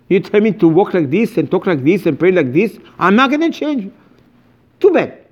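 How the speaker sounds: high-pitched mock defiance; stubborn old-timer. Congregant refusing to change his ways, high mock defiance. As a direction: refuse outright, hammed-up. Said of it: "people used to say".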